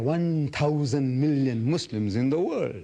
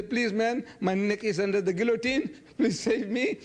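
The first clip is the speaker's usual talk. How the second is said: imitating a pleading plea, pitched higher; mock begging; 8 semitones higher than usual. Retelling how he begs donors for help, in a mock pleading voice. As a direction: play-act begging donors to save him. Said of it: "I go around begging".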